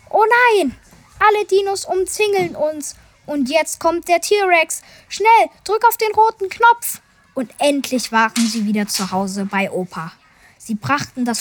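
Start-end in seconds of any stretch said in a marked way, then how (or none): 0.1-7.0 panicked. Acted. Surrounded by dinosaurs, panic.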